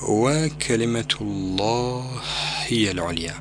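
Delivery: الله هي said with the two ha sounds merged into one; وكلمة الله هي العليا with idgham of the two ha sounds. Shown as a demonstration. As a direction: run the ha of الله into هي. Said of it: "بإدغام الهاء الأولى بالثانية".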